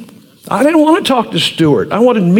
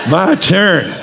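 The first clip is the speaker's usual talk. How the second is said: laughing. Retold or imitated. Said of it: "I'm like".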